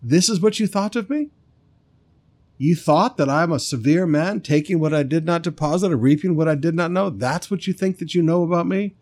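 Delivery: mock-incredulous master's questions; sarcastic lord throwing it back at the servant; facetious. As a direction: tease the servant with rising disbelief. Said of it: "saying this facetiously".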